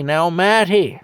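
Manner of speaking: put-on high, slow, earnest child telling off a grown-up; scolding little kid. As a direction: wag your finger like a three-year-old. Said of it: "And I say".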